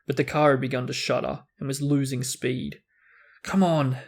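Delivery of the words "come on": cajoling. Acted. Ron coaxing the shuddering flying car, cajoling. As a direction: coax it gently, a touch louder. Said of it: "said Ron cajolingly".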